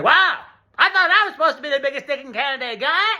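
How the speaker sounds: high, fast, laughing mock voice; cartoon giant voice. Scott the Giant Dick mocking Peterson, laughing high voice. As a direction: toss it off as a cartoon brag. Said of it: "being like".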